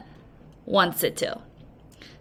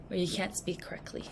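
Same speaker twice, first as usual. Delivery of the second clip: laughing; 5 semitones lower, 18 dB quieter, faster than usual. Real, not acted. Laughing aside.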